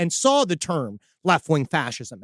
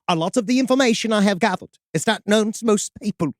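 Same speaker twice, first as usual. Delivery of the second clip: put-on Norwegian accent. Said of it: "I tried to do Norwegian".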